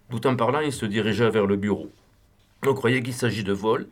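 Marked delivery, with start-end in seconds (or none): none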